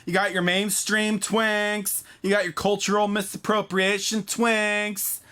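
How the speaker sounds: slow, drawn-out deliberate listing. Acted. Host savoring each twink type for viewers, slow. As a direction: savor each twink category as you list it.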